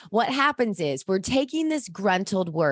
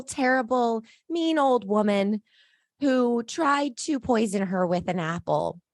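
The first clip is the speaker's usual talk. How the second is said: lightly voiced dwarf storyteller; happy dwarf; 2 semitones higher than usual. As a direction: tell a tale with a hint of happy character voice. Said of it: "I had to put on my happy voice".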